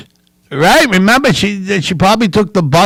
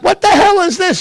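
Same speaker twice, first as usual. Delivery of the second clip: baffled outburst; 14 semitones higher than usual. Retold or imitated. Grandson baffled by grandma's TV wrestling, high disbelieving outburst. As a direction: voice shooting way up in disbelief. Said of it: "And I'm like".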